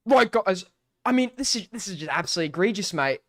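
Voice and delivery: quick, lightly Australian-sounding mimicry; botched impression that slips into an Australian accent; failed Australian-sounding impression. Streamer mimicking another streamer going live, lightly Australian-sounding. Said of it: "No, that's Australian".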